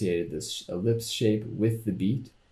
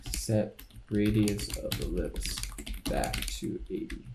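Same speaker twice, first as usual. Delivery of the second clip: slow, halting dictation while typing; typing aloud; 3 dB quieter than usual. Real, not acted. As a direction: say it slowly as you type it out, trailing softer. Narrating code comment while typing.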